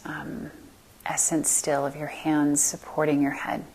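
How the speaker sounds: calm meditation guide with long pauses; guided meditation. Acted. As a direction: guide them gently into stillness, leaving space between phrases.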